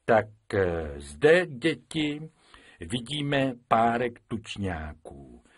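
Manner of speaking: pompous teacher. Acted. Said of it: "četl dětem".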